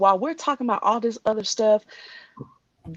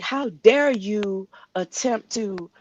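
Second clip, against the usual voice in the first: slow indignant rant; slower than usual. Real, not acted. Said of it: "I'm sorry I'm ranting".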